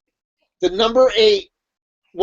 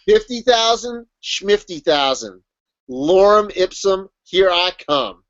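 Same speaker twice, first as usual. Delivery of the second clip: slow, deliberate scoffing boast; mock defiant; slower than usual. Writer shrugging off fifty thousand words, mock defiant. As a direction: space out each phrase like a declaration. Same quote repeated for listener.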